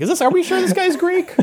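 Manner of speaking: high laughing question. Real, not acted.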